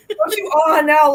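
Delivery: slow, lightly mock scolding. Scolding Gertrude for teasing, slow mock reproach. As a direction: drag it out in playful reproach. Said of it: "you're like".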